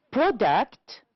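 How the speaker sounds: "Product" with PRO stressed; stress on first syllable. Shown as a demonstration. Teacher correcting an exercise, first syllable of "Product" stressed. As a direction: hit the start of "Product". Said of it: "first syllable".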